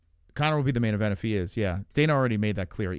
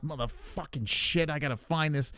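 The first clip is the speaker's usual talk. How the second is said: muttered cursing; 6 dB quieter than usual. Retold or imitated. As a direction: grumble it to yourself while digging. Imitating frantic rummaging.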